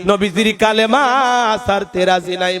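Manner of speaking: lightly voiced defiance in sermon chant; Belal's defiant reply. Preacher voicing Belal answering Abu Jahl, chanted defiance. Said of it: "হযরত বেলাল ডেকে বলে".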